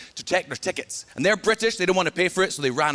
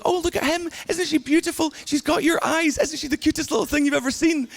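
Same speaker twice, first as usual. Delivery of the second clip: much higher cooing relatives' voice; cooing over baby; 9 semitones higher than usual. Retold or imitated. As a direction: coo over the newborn like doting relatives. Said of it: "everyone's gonna be going".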